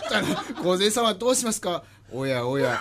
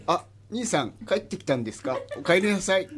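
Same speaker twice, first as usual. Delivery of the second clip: deadpan meme voice; 2 semitones higher, faster than usual. Acted. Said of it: "何微妙な棒読みで言ってんのよ".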